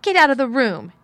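high, loud, angry shout; shouted order. A narrator's reading. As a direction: order them out in a rage. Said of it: "he shouted".

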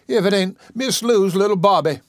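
high, loud joyful exclamation; delighted cry. A narrator's reading. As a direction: burst out in happy recognition. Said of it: "she cried".

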